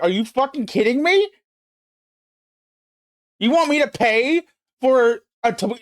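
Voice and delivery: high, fast, incredulous outburst; retold outrage. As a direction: replay the moment you snapped, fast and high. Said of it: "and I was like".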